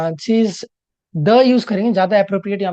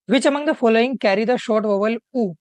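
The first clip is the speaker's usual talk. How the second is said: slow question read-out; much slower than usual. Shown as a demonstration. Teacher slowly reading the exam question to the class. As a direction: read each word slowly and clearly. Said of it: "reading the question slowly aloud".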